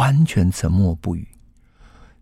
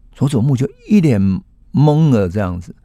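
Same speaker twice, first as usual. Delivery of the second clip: ordinary delivery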